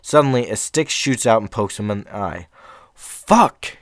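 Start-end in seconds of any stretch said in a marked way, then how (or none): 2.9-3.8 sudden high yelp of pain; sharp high yell as if jabbed in the eye; pained curse. Acted. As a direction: blurt it out as the stick hits. Man poked in the eye.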